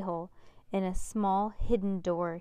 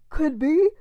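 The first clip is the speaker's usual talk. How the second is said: loud musing; 8 semitones higher, 11 dB louder than usual. Acted. Max Ernest muttering to himself.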